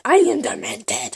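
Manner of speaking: hammed-up whisper; mock whisper. Labelling herself demented for viewers, mock whisper. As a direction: whisper it like a spooky confession.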